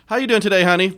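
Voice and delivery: waitress voice. Retold or imitated. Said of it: "Give me that, like".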